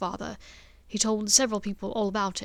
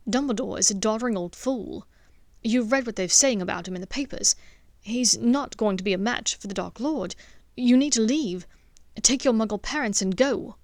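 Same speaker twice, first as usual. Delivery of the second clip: louder, pressing insistence; urgent warning; 7 dB louder than usual. Acted. Draco urging Hermione to flee, loud and insistent. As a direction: push her to leave, forcefully.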